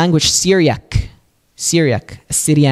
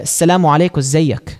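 Egyptian Arabic. Retold or imitated. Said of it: "how they say it in the Egyptian dialect".

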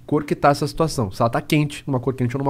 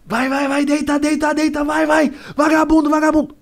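much higher shouted mock cop order; furious order; 12 semitones higher than usual. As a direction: scream at the suspect to get down. Armed guard shouting at him. (segurança gritando para o vagabundo deitar)

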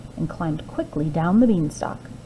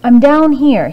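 louder call from below; 5 semitones higher, 9 dB louder than usual. A narrator's reading. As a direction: shout up to the giantess. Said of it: "he said".

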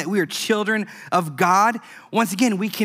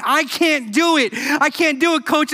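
much higher, strained plea; straining struggle; 8 semitones higher than usual. Retold or imitated. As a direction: beg from exhaustion. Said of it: "Brock is saying".

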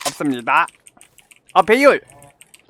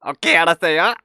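Pengsoo impression; 2 semitones lower than usual. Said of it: "펭수 성대모사로 한번 해보겠습니다".

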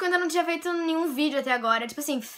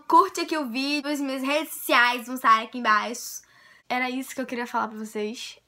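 ordinary delivery

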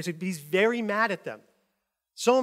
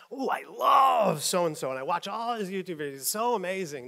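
hammed-up adoring follower; mock gushing fan. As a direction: gush like a starstruck fan, lightly mocked. Mocking pastor-worshipping fans.

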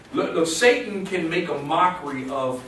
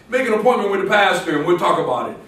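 laughing; 3 dB louder, faster than usual. Real, not acted. Laughing at his own joke.

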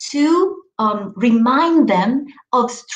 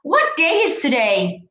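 teacher voice; 5 semitones higher than usual. Retold or imitated. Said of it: "ask children".

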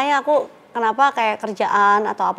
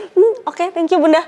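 lightly voiced little girl, high; child's instant recovery; 5 semitones higher than usual. Daughter thanks Bunda once given it, lightly mimicked high voice. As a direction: imitate a child whose tears vanish at once. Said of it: "Hilang nangis ya".

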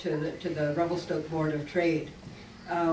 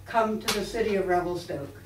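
grand, hammed-up recital, stifling laughs; dramatic voice; 2 semitones higher than usual. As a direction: overblown orator reading, half laughing. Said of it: "I'll read it in my most dramatic voice".

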